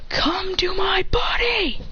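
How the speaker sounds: high, drawn-out summoning cry; power-up cry. Acted. Fighter calls the world's energy to himself, power-up cry. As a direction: stretch it high as if pulling in power.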